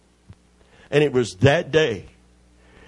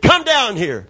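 raised, forceful demand that falls at the end; imitating crazed anger; 5 semitones higher, 4 dB louder than usual. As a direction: order him down, worked up. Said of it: "he went nuts".

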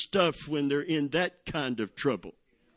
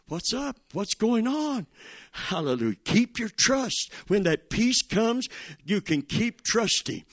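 rising preaching; 2 semitones higher than usual. Acted. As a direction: lift the room, call for amens. Preacher exhorts the congregation.

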